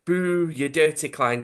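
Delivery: high, drawn-out mock boo; jeering crowd. Storyteller imitates stadium fans booing Klein, jeering. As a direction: jeer like a football fan. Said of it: "everyone's going".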